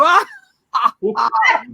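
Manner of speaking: "ah" laugh climbing upward. Shown as a demonstration. Leader demonstrates the opposite exercise, rising laugh. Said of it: "which is laughing up".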